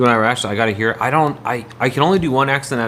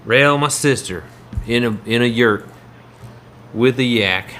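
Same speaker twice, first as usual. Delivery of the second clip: West Virginia accent. Shown as a demonstration. Streamer showing chat an accent, mock West Virginia twang. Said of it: "West Virginia accent".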